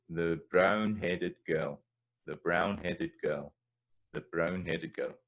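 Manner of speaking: put-on slow Scots brown-headed girl, rolled r; Scots phrasing. Shown as a demonstration. Teacher contrasting English and Scots phrasing. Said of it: "bring the idiom in here".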